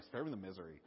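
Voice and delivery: lightly mocking valley girl sigh; valley girl whine. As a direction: roll your eyes at the misery, valley girl style. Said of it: "Moses is sounding kinda like a valley girl".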